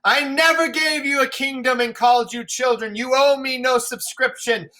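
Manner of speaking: shout, then crack on the oh ho; wounded old man's shout at the sky; bitter raging king. Acted. Lear raging at the storm.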